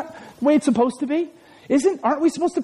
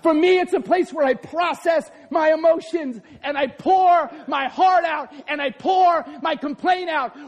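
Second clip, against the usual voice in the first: raised, driving preacher voice; fervent sermon delivery; full-force preaching; 4 semitones higher than usual. Acted. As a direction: preach it out to the crowd.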